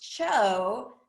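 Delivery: "cho" as one slow syllable, like the start of chocolate; correct pronunciation. Shown as a demonstration. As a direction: say "cho" drawn out, ch plus long o. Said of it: "first three letters in chocolate".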